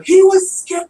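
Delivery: put-on high, loud British-accented yell, drawn out; yelling Doctor. Podcaster imitating the Doctor defending the pig, mock British yell. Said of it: "The doctor yells at him".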